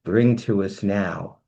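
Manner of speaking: rhymed announcer chant, ringing start; summoning spell. Acted. Host summoning the next entertainer in rhyme, grand announcement.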